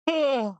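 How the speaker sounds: a big tired sigh out loud; long weary sigh. Real, not acted. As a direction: sigh like you're bored stiff. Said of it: "You got me yawning".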